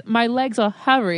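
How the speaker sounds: British accent. Shown as a demonstration. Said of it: "if a British person says".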